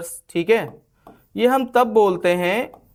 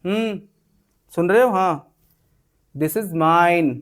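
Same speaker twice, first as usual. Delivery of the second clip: possessive claim; slower than usual. Shown as a demonstration. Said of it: "हम दिखा रहे हैं ऐसे करके और फिर बोलेंगे".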